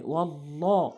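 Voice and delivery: "ওয়াল্লাহ" with a thick, rounded 'llaw'; full heavy L. Shown as a demonstration. Teacher showing the rule after zabar, full heavy L. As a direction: fill out the L and vowel of "ওয়াল্লাহ". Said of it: "ডানে জবর থাকলে পুর হয়".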